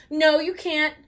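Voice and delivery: loud, high protest; indignant shout. Acted. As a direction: shout it back at him. Kids arguing over berries.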